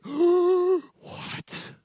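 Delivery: sudden high, loud shocked "What?"; shocked villagers. Acted. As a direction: gasp it out like scandalized villagers. Shocked villagers gasp at father.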